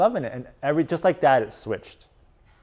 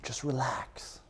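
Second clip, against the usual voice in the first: much softer, mocking a coach's calm cue; mock soothing coach; 15 dB quieter, slower than usual. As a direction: parody a lazy calming cue. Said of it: "I hear the coach, like".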